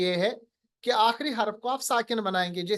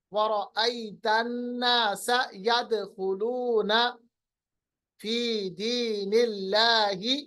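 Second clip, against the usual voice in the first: measured recitation with long-held vowels; Quran recitation; slower than usual. Shown as a demonstration. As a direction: recite slowly, bouncing the qalqalah letters. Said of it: "इदाजा पढ़ते हैं ना". (ठहर-ठहर कर क़ुरआन की तिलावत)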